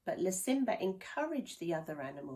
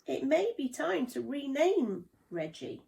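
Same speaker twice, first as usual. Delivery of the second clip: suggesting; 7 semitones higher, 7 dB louder than usual. A narrator's reading. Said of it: "suggested Lasimba".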